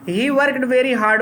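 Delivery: words spaced out slowly for note-taking; slow dictation. Shown as a demonstration. Teacher dictating the answer slowly to students. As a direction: dictate it word by word to the class. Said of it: "dictating a translation answer".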